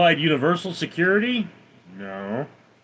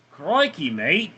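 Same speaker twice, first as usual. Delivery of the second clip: a brief try at an Australian accent; light Aussie accent on a short phrase; slower than usual. Shown as a demonstration. Streamer trying an Australian accent for a viewer, lightly Australian. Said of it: "can you do Australian accent?".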